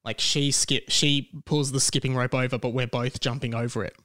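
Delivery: talking around a sore tongue. Real, not acted. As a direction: speak carefully, tongue hurts to move. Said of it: "I'm talking kind of weird because it's actually painful to talk".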